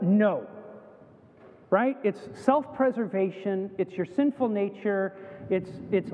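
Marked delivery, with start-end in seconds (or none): 0.0-0.5 quick reflex denial; a child's blurted denial. Acted. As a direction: blurt it out, a touch loud. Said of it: "you blurt out".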